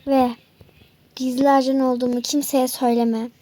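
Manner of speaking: a low, menacing villain catching his victim. Acted. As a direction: growl it like a gloating villain. Villain warns secretly.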